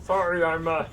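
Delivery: quiet gnome with Romano whine; Ray Romano voice. Acted. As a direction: mumble as a gnome shopkeeper. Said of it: "new arcane bubble gum that changes your voice".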